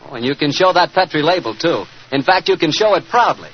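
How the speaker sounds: upbeat, friendly wine commercial pitch; old-time radio announcer selling wine; radio ad read. Acted. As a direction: sell the port to the listeners at home, warmly. Sponsor ad before the show.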